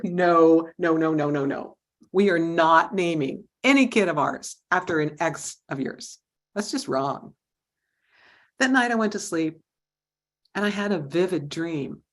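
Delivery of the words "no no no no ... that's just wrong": louder, emphatic no's; firm refusal. Retold or imitated. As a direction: shut him down, insistent. Firmly refusing husband's name idea.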